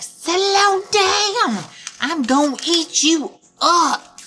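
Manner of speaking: a squirming wolf trying to calm his meal; hammed-up wolf mid-struggle. A narrator's reading. Wolf struggling with Little Red.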